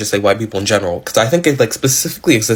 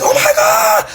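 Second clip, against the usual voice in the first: squealed way up high, like a starstruck fan; mock fan squeal; slower than usual. Fan gushing at a white dancer, high mock squeal. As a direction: gush over him in a piercing squeal.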